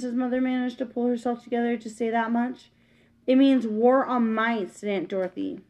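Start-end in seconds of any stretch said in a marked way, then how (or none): 3.3-4.8 ominous. Acted.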